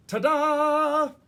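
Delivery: loud, high triumphant ta-da; hearty ta-da. Acted. Maggie showing her costume to the class, loud and proud. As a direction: present yourself with a flourish. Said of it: "presented herself with a hearty".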